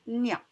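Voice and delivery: "nia" slowly, gn joined to a; syllable demonstration. Shown as a demonstration. Teacher showing pupils gn with A, "nia" said slowly and distinctly. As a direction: sound out "nia" as one slow syllable. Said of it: "on le prononce".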